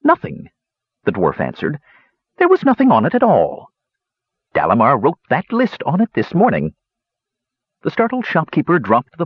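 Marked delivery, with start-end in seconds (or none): 0.0-0.5 put-on higher, old dwarf hermit; lightly voiced old dwarf. 2.4-6.7 put-on higher, old dwarf hermit; lightly voiced old dwarf.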